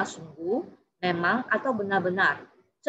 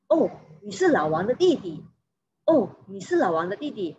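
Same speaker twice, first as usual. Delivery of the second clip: realisation. Shown as a demonstration. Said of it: "menyatakan pengertian atau penyadaran".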